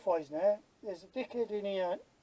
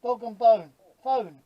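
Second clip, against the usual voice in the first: exasperated explaining; 2 semitones higher, 9 dB louder than usual. Retold or imitated. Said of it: "I went".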